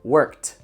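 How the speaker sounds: worked ending in a clear T; worked said workt; final T sound. Shown as a demonstration. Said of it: "mesmo som de T do final da palavra".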